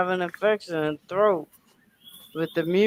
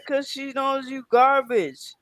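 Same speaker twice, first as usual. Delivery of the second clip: higher, dismissive mock telling-off; telling off the man the dog growled at; retold telling-off; 5 semitones higher than usual. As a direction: send him off across the street. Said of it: "I said".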